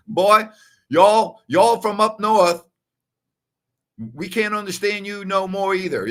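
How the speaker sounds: high, loud mock Southern uncle; Southern drawl. Uncle answering his Northern nephew, imitated high Southern drawl. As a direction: draw it out in a hammed-up Southern accent. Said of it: "He had that Southern drawl".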